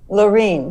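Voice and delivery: Lorene repeated as "luh-REEN"; Lorene, stressed on "reen"; corrected pronunciation. Real, not acted. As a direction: say Lorene with a long "ee" in the second syllable.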